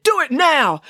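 loud, high, impatient command; demanding. Acted. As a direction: push each word out forcefully. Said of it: "he demanded".

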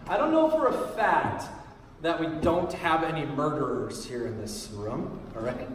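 dropping low into a half-joking aside; half-hearted, half serious. Real, not acted. Pastor to congregation about possible murderers, half-heartedly serious. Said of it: "I say that kinda half-heartedly".

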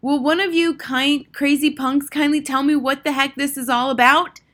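put-on high, loud boyish tirade; exasperated kid yelling; indignant shout. A narrator's reading. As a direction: shout at the crazy lot of them. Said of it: "shouted Bruno".

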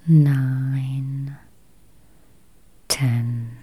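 slow, spacious meditation voice with long pauses; guided meditation. Acted. Meditation guide easing listeners toward healthy eyes, slow guided-meditation voice. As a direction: guide listeners gently into calm, unhurried.

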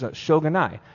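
"Shogunai" said the Japanese way, sho-gu-nai; Japanese phrase. Retold or imitated. Japanese friend shrugging it off, lightly saying "Shogunai". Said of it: "He goes".

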